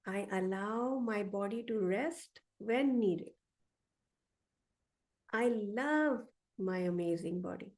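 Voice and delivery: slow, measured affirmations with long gaps. Shown as a demonstration. Coach reads the affirmations for listeners to repeat, slowly. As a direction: let each line land before the next. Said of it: "So I'm gonna say it slow".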